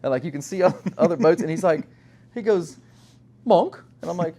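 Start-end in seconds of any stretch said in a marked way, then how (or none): 3.4-3.8 high, loud questioning call; retold puzzled call. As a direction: call the name in disbelief, mimicking a client. Client calls out in retold call.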